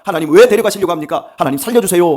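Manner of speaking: loud, high pleading prayer with a hint of tears; desperate weeping plea. David begging God to spare his son, loud acted plea. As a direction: beg God for the child's life, lightly acted. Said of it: "막 간절하게 울면서".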